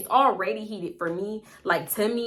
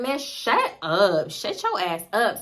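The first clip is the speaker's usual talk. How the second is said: dismissive shut up; slower than usual. Retold or imitated. Snapping back at Salty.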